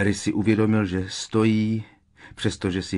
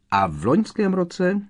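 high, excited near-shout; almost shouting; 11 semitones higher, 3 dB louder than usual. A narrator's reading. Ron overriding Harry's modesty, almost shouting. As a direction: drive the point home, pitched right up. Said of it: "Ron už skoro křičel".

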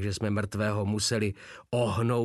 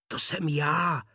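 restrained cry out; 5 semitones higher than usual. A narrator's reading. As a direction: call out with relief, holding the volume back. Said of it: "vykřikl jsem konečně". (tlumený výkřik)

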